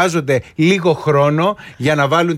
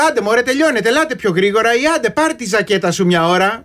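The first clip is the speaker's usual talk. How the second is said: impatient hurrying; 5 semitones higher than usual. Retold or imitated. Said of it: "που κάποιες φορές έχω πει".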